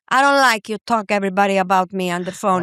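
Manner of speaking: broken-English mother scolding through the door; scolding immigrant mother. Retold or imitated. Mother scolding her son for telling the fart story, mock-indignant. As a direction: play the mother refusing to open up.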